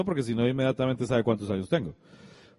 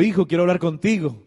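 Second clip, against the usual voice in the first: mildly cheerful retold voice of a father; a touch of gladness, lightly imitated; happy; 4 semitones higher, 3 dB louder than usual. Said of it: "se escuchaba alegre, se escuchaba feliz".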